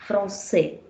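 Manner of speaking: Français 再读 fron-SAY, ç 读 s; Français 清楚慢读; French français. Shown as a demonstration. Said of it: "You get the sound there?".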